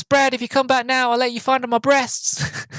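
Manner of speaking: high, put-on pleading girlish voice; scared girl calling. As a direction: beg your boyfriend to come back, hammed up. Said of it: "She goes".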